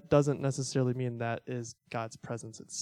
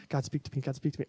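quick, repeated mock plea in near-usual voice; imitated childhood prayer; faster than usual. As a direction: lightly act a kid praying for a sign. Acting out childhood random Bible opening.

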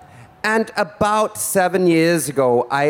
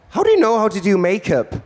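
high, fast amazed outburst; mock astonishment, pitched up and hurried; astonished question; 5 semitones higher, faster than usual. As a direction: blurt it out as an amazed friend. Acted astonished friends in her story.

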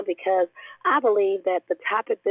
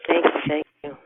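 hoarse, barely-there voice; lost voice. Real, not acted. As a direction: speak with almost no voice left. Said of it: "I have no voice".

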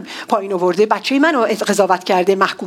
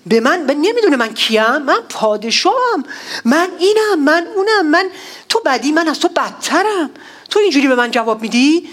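furious boast; 4 semitones higher than usual. Retold or imitated. David voiced boasting in anger.

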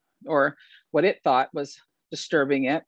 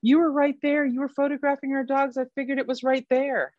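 high mock handler voice; lightly voiced handlers; imitating handlers; 10 semitones higher than usual. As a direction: play the accusing handler, pitched up. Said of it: "several people came up and said".

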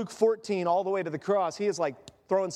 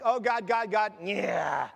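mock distracted worship; slower than usual. Distracted mid-worship, mocking.

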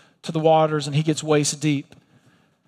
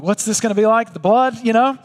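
uneasy crowd; 5 semitones higher than usual. Retold or imitated. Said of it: "everybody starts feeling uncomfortable".

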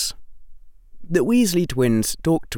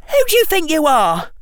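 much higher, louder, fast outraged demand; indignant; 7 dB louder, faster than usual. Acted. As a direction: put him in his place. Rita confronting the stranger.

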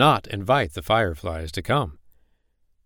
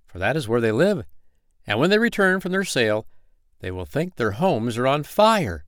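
higher, gleeful conspirator giving orders; rally the troops with mischief; eager old firefly; 5 semitones higher than usual. Acted.

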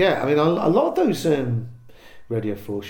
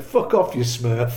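loud jeering shout at the stage; heckler's shout; 4 dB louder, slower than usual. Retold or imitated. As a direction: bark it at him from the crowd.

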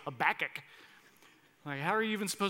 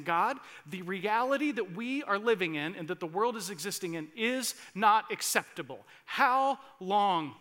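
rising to a loud, pleading cry; loud plea; 3 semitones higher, 6 dB louder than usual. Acted. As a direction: plead louder and louder with God. Voicing souls crying to God.

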